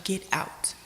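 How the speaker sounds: hushed, unvoiced cold dismissal; cold whisper. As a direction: breathe it out coldly. Mother's cold reply.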